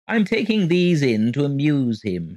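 신나서 재잘대듯 높게; chirped gaily. A narrator's reading. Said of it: "he chirped gaily".

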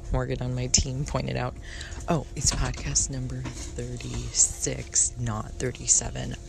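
hushed, half-whispered podcast intro; whispering. Real, not acted. Host on a train recording an intro for listeners, whispering. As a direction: keep your voice down on a train. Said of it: "I'm whispering right now".

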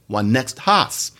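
Jamaican patois. Shown as a demonstration. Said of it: "That's another horse in Jamaican patois".

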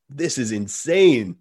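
drawn-out mock disbelief, said slowly. Retelling being called racist by neighbors, slow stunned disbelief. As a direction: stretch each word out in retold disbelief. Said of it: "was like".

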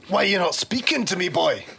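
impatient soldier, building to a high call; flustered soldier. Acted. Soldier to a silent stranger, flustered impatience. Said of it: "is getting a bit flustered now".

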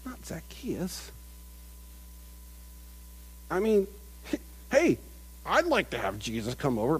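lightly voiced self-righteous grumble; a hint of petty, jealous muttering; smug grumbling crowd. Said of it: "smug, self-righteous".

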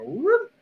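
rising high-pitched whoop; quick mock "whoop", sliding up; cartoon whoop. Mimes reaction to pointed gun.

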